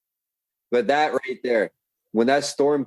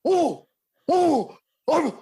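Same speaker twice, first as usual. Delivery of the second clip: flustered stammer; much slower than usual. Retold or imitated. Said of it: "he goes".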